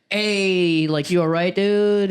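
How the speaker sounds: imitating an Aussie brother checking on him; mock Australian accent. Brother asking if he's all right, in a mock Australian accent. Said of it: "they're Australian, though".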